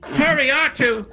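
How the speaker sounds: anxiously calling after a droid companion; C-3PO. Pretend. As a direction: play the fretful robot calling his sidekick. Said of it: "I'm C three P O".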